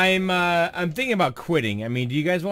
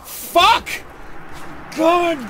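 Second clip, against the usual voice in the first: furious cursing; 8 semitones higher, much slower than usual. Real, not acted. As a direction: drag out the curse in real rage. Another death in the game.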